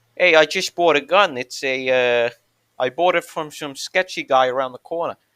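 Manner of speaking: put-on New York accent. Joking about living in New York, doing a put-on New York accent. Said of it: "I could do the accent".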